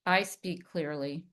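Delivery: soft, swallowed ending; weak fading sentence; trailing off. Shown as a demonstration. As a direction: let the voice drop away. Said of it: "So I'll demonstrate that also".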